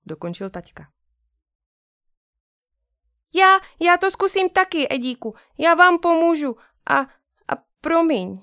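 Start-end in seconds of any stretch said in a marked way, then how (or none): 3.3-8.3 put-on high small girl's voice, timid; little girl peeping. Sister apologizing from the doorway, high and timid. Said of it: "Pípla ze dveří Edinka".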